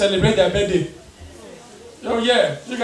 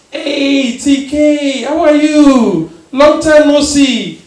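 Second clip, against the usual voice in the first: a hint of a fussy pharmacist; chatty pharmacist; slower than usual. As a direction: gush like a nosy old family friend. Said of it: "the pharmacist go like".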